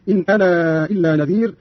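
أنا held out long before إلا; longer separated madd. Shown as a demonstration. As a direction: stretch final ā of أنا into إلا. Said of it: "فيصير عنده وصلا مدا منفصلا".

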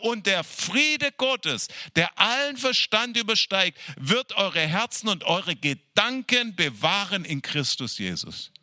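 quoting Paul's promise of peace, slow and solemn; slow solemn scripture. Retold or imitated. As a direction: stretch each word like a blessing.

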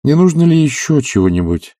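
poorly hidden annoyance. Acted. Oblomov irritated by the doctor's endless advice. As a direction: let the vexation leak through. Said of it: "с худо скрытой досадой".

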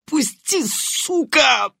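high strained thug cry from pain; грабитель от боли. Acted. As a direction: yelp it out as a hurt robber. Побитый грабитель кричит от боли. (сдавленный крик от боли)

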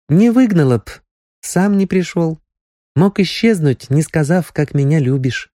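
put-on young girl, hurt. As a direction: speak like a girl hiding hurt. Nastya about Sonya, near tears.

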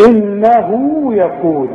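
إنه يقول drawn out slowly; يقول held with a natural long u, slow; natural long vowel. Shown as a demonstration. Teacher models the long vowel in يقول, slowly. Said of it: "واخد بالك".

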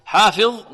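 حافظ with a clear "fi" before heavy ظ; careful model of حافظ, ف kept light; preserved fā' kasra. Shown as a demonstration. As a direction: keep the "i" after ف pure in حافظ. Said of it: "نحافظ على كسرة الفاء".

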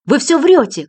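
shouting. A narrator's reading. Lola crying out at the detective, shouting. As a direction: scream the denial. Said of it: "крикнула она".

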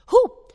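short, high, loud "uh!"; sudden yelp as the swing jolts; startled cry. A narrator's reading. Sudden yank upsets the swing.

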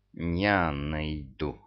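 slow, low sinister hiss; mustache twirling villain. A narrator's reading. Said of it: "зловеще прошипел Мурзик".

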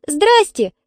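put-on high-pitched little girl's squeak; squeaked greeting. A narrator's reading. Svetlanka greets the angry dog owner, squeaking. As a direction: squeak out a timid hello. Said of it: "пискнула Светланка".

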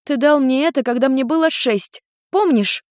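put-on girl reminding. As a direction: jog his memory.

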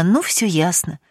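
plain reading voice

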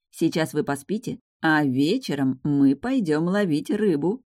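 slow, secretive little promise; conspiratorial tone. Acted. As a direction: let them in on a secret. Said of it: "заговорщическим тоном сообщила я".

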